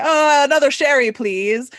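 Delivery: a hint of a lazy guest; lightly voiced idle guest. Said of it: "I don't just sit on the couch and say".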